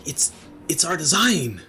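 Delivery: high excited gasping wonder; breathless with wonder at the find; awed. Acted. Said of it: "in awe, he goes".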